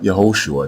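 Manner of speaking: "Yehoshua" with an H and a final shoo-ah; wrong name pronunciation. Shown as a demonstration. Teacher rejecting a way to pronounce Hoshai's name, wrong form. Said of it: "the way you pronounce Hoshai's name is not".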